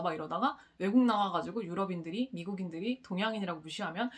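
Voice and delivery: usual speaking voice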